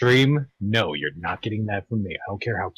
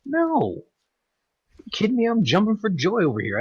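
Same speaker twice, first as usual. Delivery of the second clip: sarcastic; 12 semitones higher than usual. Retold or imitated. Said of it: "I'm like".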